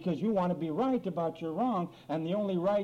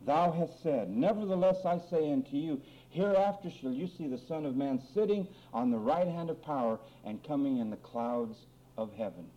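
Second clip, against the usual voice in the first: measured Bible reading, settling lower at the close; scripture reading; 4 semitones lower than usual. A narrator's reading. Preacher reads Jesus's answer to the congregation, formal reading. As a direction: read it out formally, phrase by phrase.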